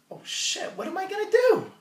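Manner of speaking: high, squeaky panic; panicked. Retold or imitated. Teacher panicking about his tenure portfolio. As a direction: voice jumps up in mock panic. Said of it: "So I'm like".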